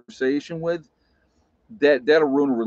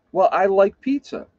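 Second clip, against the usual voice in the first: higher, louder airheaded answer; clueless wife; 7 semitones higher, 5 dB louder than usual. Retold or imitated. Wife answering grandmother, higher and airheaded. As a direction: explain it innocently. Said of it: "She goes".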